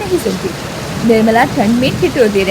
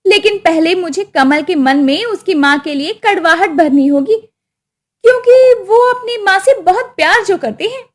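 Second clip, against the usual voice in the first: a lightly raised, sly voice; scheming wife; 5 semitones higher than usual. Acted. Wife scheming against her mother-in-law, sly.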